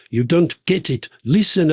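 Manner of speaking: put-on a light South African accent on the quote. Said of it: "That was better with the accent".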